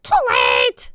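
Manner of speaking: low, loud squawk; Polly the parrot squawking. A narrator's reading. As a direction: croak it like a parrot. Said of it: "squawked Polly".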